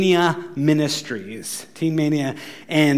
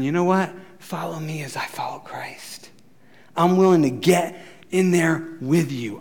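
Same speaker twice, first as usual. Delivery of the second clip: tender parent. Retold or imitated. Loving parent reassuring child.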